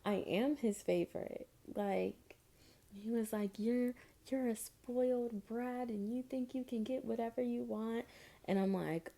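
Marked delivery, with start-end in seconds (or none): 3.6-8.1 higher scolding man voice; a hint of an irate man; mock scolding guy. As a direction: scold her as a spoiled brat. Guy calls her spoiled brat.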